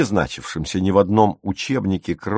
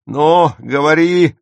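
slow, higher, louder shout; furious yell; 7 semitones higher, 6 dB louder, slower than usual. A narrator's reading. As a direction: bellow it down at the brother. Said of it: "заорал Отто".

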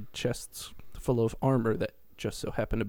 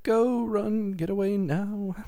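high, louder urging to flee; dying mom, higher and louder, urgent; urgent mock shout; 10 semitones higher, 3 dB louder, slower than usual. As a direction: urge them to run. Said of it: "Mom's like".

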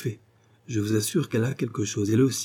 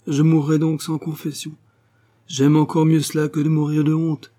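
high, louder declaration; despairing outburst; 6 semitones higher, 5 dB louder than usual. Acted. Young clerk would rather die of shame, despairing outburst. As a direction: protest dramatically, pitched well up.

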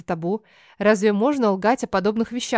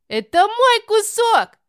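put-on high, loud, slow childish yell; a little girl claiming her slice at full volume; 12 semitones higher, 6 dB louder, slower than usual. Alisa shouts back at her sister, high loud yell. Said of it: "Не уступает ей в громкости Алиса".

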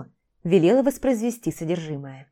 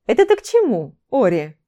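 sincere indignation; 3 semitones higher, 5 dB louder than usual. A narrator's reading. Vampire teacher challenges Орон's jibe, indignant. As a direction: object with the pitch shooting up. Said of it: "Искренне возмутился вампир".

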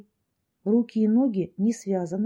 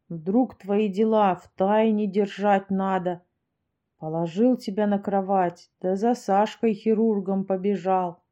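put-on rough drunk man voice. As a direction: tell it like a kind old drunk. Venya's long drunken tale.

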